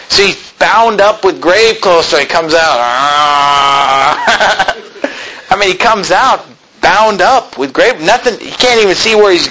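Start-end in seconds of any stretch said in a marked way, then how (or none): 2.8-4.8 long, held-out wordless groan; drawn-out mummy-like moan; muffled groan. Acted. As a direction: groan like someone bound up stumbling out. Imitates bound Lazarus coming out.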